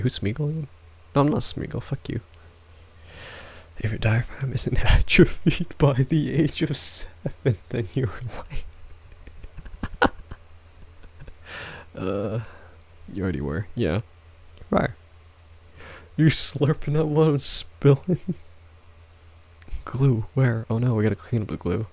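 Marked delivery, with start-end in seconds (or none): 3.8-8.6 mock lecture. 16.2-18.2 teasing quote. Retold or imitated. Mock quote again.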